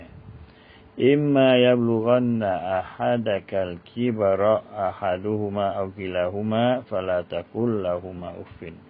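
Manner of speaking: slow, drawn-out chanted Arabic verse; Quran recitation. Acted. Preacher chanting a Quran verse to the congregation, slow and drawn out. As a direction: intone the verse slowly, like recitation.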